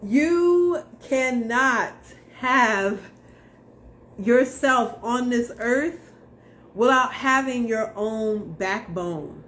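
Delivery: loud, slow and deliberate. Retold or imitated. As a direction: hammer each word out, loud and slow. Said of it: "it was pretty loud".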